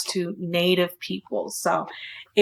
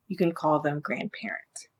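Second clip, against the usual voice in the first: whisper; 4 semitones lower, 8 dB quieter than usual. Real, not acted. Aside whispered.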